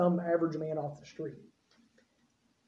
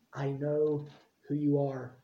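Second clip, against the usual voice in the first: low quiet knowing; 6 semitones lower, 6 dB quieter than usual. Retold or imitated. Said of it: "and Jesus says".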